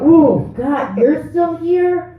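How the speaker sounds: high, drawn-out mock surprise; mock dismay. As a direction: act out finding an unwelcome overnight guest. Acts out finding unwanted guest.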